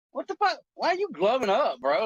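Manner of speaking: imitating his younger self's alarm at the doctor; retold disbelief. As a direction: jump up in pitch, caught off guard. Retelling shock at the doctor.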